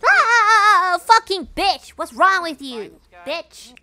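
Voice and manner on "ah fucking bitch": high, loud scream into cursing; real jump-scare outburst; startled yell. Real, not acted. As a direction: yell out and swear in fright. Jump scare in horror game.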